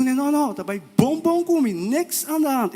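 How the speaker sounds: high, sing-song mock answer; mock reply. Voices his own reply in a story. (resposta imitada, bem aguda)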